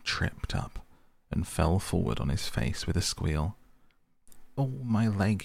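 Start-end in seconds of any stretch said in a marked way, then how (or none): 4.6-5.4 a higher, pained little cry; a hurt animal yelping at its leg. Acted. Mole cries out to the rat after tripping, pained. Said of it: "he cried".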